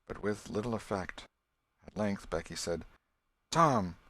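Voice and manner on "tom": sudden louder, higher call; anxious call. A narrator's reading. Becky calling to Tom in the dark, anxious call. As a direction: cry out his name in worry.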